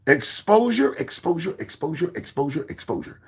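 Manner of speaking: exposure repeated, fading to a whisper; fading echo. Acted. To viewers, the word fading into a whisper.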